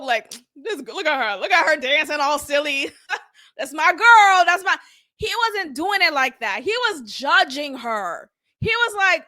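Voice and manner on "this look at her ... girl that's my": playfully doting, with a chuckle; joking affection. Retold or imitated. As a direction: imitate a proud partner teasing fondly. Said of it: "like, a joke".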